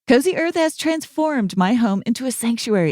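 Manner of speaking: smooth, upbeat sponsor read. Acted. Host reads the BetterHelp sponsor spot: easy ad read. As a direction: sell it warmly but plainly.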